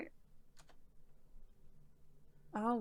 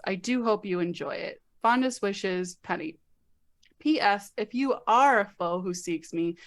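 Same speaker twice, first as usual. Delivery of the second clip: reading a letter aloud; 3 semitones lower, 3 dB quieter than usual. Acted. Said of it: "I know you don't like reading aloud".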